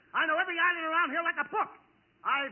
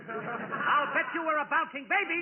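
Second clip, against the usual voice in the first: put-on "I'll bet you were a bouncing baby" repeated a bit louder, pushed out; repeated louder to be heard. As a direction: say it again so they finally hear it. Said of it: "You said that once".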